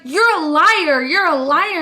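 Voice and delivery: put-on chanting kids; taunting kids. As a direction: classmates chanting liar. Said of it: "all the kids are like".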